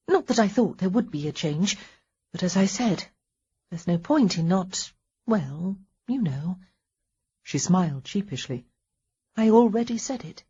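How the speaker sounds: lightly voiced wife, a touch embarrassed; a hint of sheepish apology.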